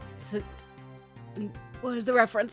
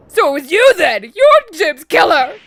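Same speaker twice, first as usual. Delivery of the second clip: louder, strained accusing wimp; wimpy jock voice; 4 semitones higher, 8 dB louder than usual. Acted. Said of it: "more jock voice than this wimpy".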